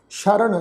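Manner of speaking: ਸ਼ਰਨ said "sharan", starting with sh; sh sound. Shown as a demonstration. Teacher shows the dotted letter, ਸ਼ਰਨ with sh. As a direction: open ਸ਼ਰਨ on "sh", as with a dotted sassa. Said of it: "ਸੱਸੇ ਪੈਰ ਬਿੰਦੀ ਲਗਾ ਕੇ".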